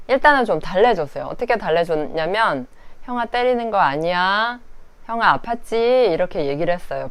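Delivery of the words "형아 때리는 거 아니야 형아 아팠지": gentle soothing. Retold or imitated. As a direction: coax the child gently. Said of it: "부드럽게".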